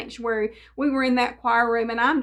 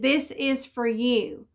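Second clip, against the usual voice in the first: gentle slow offer; slower than usual. Retold or imitated. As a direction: hand it over gently, word by word. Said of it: "Even the way that my neighbor said it".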